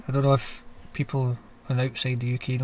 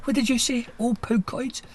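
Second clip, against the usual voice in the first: mock hostile local; 2 semitones higher than usual. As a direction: sneer at the foreigner, half in jest.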